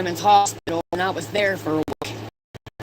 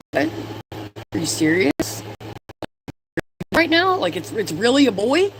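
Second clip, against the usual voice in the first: rising to a much higher squeal of surprise; retold disbelief; 5 semitones higher than usual. Mother retelling the ultrasound reveal, high thrilled disbelief. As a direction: relive hearing it's not a girl. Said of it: "I'm like".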